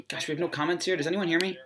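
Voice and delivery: muffled voice from a poor mic; underwater. Real, not acted. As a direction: sounds underwater, muffled audio. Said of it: "my voice sounds like I'm underwater".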